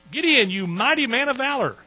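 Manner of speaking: loud, high angelic hail; ringing, theatrical greeting; heralding proclamation. Acted. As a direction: proclaim it grandly to a hero. Angel hails Gideon in retold story.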